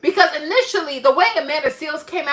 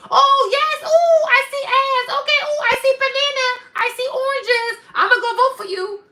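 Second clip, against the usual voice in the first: much higher mock simpleton voice; dim-witted voter caricature; 10 semitones higher than usual. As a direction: ham up a gullible voter dazzled by fruit. Mocking dumb voter caricature.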